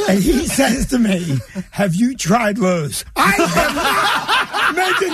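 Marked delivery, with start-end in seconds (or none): 1.7-3.0 slow, helpful-sounding suggestion; deadpan store clerk. Retold or imitated. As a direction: retell the clerk's earnest tip, unhurried. Clerk's straight-faced suggestion in retold story.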